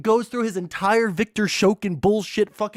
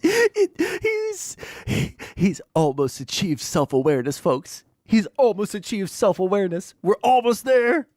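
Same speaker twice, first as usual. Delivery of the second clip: mock announcer. Host mocking the guest's near self-awareness in a put-on voice. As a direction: marvel at him like a pet that almost learned to think.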